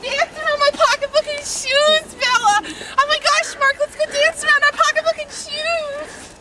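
hammed-up pleading to go dance; Dane Cook boy bit. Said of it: "I'm a boy doing the Dane Cook, the Dane Cook thing".

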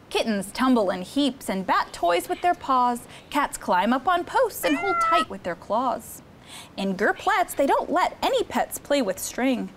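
put-on lively read-aloud for children; storybook reading. Counselor reading Cat in the Hat book to campers, lively storytime. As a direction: read the rhymes to the kids with bounce.

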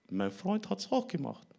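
put-on high, slow little-kid voice; small high voice, drawn out; child's excuse. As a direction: play a child making an excuse, pitched high. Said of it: "Und dann hab ich gesagt".

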